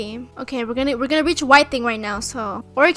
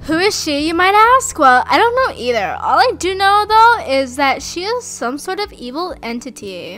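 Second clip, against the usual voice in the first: dramatic voiceover narration. Acted. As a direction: narrate it like a horror trailer. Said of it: "I'm a make voiceover".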